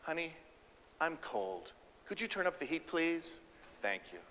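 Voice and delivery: soft, even and direct; calm assertive request. Shown as a demonstration. Wife asking her husband to turn up the heat, calm and direct. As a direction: ask plainly and kindly. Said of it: "This is highly assertive communication".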